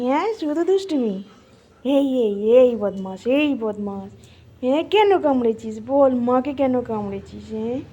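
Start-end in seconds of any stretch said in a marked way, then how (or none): 1.9-7.8 playful telling-off in a lower voice; mock scolding. Owner asking the dog why it bit, mock scolding. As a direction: play at scolding a naughty pet, drawing it out.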